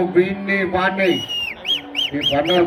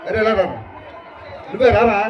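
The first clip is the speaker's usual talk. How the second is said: Pawan Kalyan impression. Comic attempting Pawan Kalyan voice on request. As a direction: bark it like the hero. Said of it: "Pawan Kalyan గారు voice చేయి".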